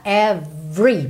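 slow "Every" in two syllables, "ev-ree"; silent middle E. Shown as a demonstration. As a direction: join V straight to R in "Every". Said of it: "do meio ali de every não é pronunciado". ("Every" sem o E do meio)

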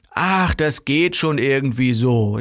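slow, stretched "ach", dismissive; offhand brush-off. Acted. Seller offering a lazy compromise, offhand. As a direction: wave the worry away, drawn out.

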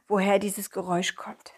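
soft secretive whisper. Acted. Whispering curiosity in story.

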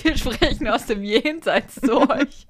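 slow spooky ghost voice; ghostly voice. Pretend. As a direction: speak slowly like a ghost from beyond. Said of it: "die Geisterstimmen".

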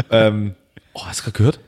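hushed unvoiced whisper. Real, not acted. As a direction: whisper it under your breath. Whispers about noise upstairs.

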